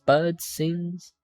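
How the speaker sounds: slow, drawn-out mock-London accent; wobbly London accent. Gentleman showing off his park in spring, wobbly London accent. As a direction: attempt London English and miss slightly. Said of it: "I'm not doing this accent right".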